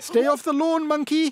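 loud, high warning call; stern warning. A narrator's reading. Warning character off lawn.

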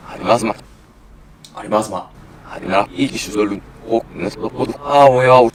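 reversed audio gibberish; speech played in reverse; backwards speech. Shown as a demonstration. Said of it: "이걸 한번 돌려볼 거고요". (거꾸로 재생된 말소리)

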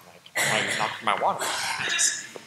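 slow whispered aside under the breath. Real, not acted. Student to himself about the water, whispered. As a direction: murmur it to yourself, unbothered. Private aside after conflict.

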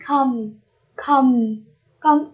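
"Come" for comb, ending on m with no b; silent b. Shown as a demonstration. Teacher modelling comb for students, "Come" with the b silent. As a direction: close "Come" on a plain m, b unspoken. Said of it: "cái chữ bờ chúng ta không đọc".

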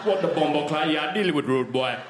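put-on accent sliding from one region into another, pitch climbing high; hammed-up accents morphing mid-sentence into Indian, then Jamaican; confused speaker drifting helplessly through accents; merged British accents. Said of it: "everyone's gonna have the same accent. It's all gonna be merged into one".

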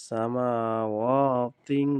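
সামাওয়াতিন chanted slowly, final nasal held; heavy ghunnah. Shown as a demonstration. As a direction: swell into a long nasal ending on সামাওয়াতিন. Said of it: "তাহলে কীরকম মোটা হবে". (সামাওয়াতিন-এ মোটা গুন্না)

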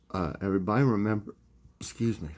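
talking through the hiccups; hiccuping mid-sentence. Real, not acted. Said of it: "I got the hiccups".

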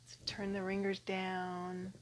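soft, unhurried meditation voice with long pauses; guided meditation. Acted. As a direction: settle them gently into breathing. Leads a meditation.

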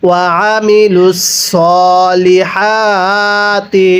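slow melodic tilawat, drawn-out vowels; slow Quran recitation. Shown as a demonstration. Teacher recites the verse for students, slow melodic chant. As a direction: chant the verse slowly and evenly. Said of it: "আরেকবার পড়ুন".

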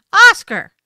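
Oscar high and very loud, falling; loud, high, insistent Oscar; insistent name call. Shown as a demonstration. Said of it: "his name in a variety of inflections".

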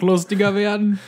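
high, teasing repeat of the phrase; mocking echo. Real, not acted. Echoing partner's phrase mockingly.

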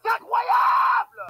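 shouted French disbelief; outraged disbelief. Real, not acted. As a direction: cry out in disbelief. Exclaiming in French mid game.

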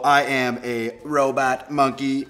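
slow, halting reading; silly read-aloud. Acted. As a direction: read it out slowly, word by word. Reads a silly claim.

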